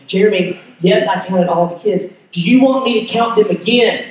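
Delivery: imitating an annoyed wife, mildly; a touch of exasperation, words set firmly apart. Wife woken by her worried husband's question, mildly annoyed. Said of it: "Now she's annoyed".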